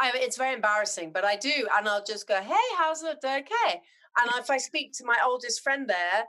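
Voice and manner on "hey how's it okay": singy-songy Zimbabwean greeting, pitched up; Zimbabwean accent. Retold or imitated. Slipping into the accent with the osteopath, Zimbabwean accent. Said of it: "I sort of slip into the accent".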